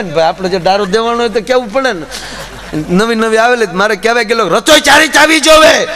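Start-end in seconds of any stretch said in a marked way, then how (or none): 4.5-5.9 mock stern warning. The husband's threat to his new wife.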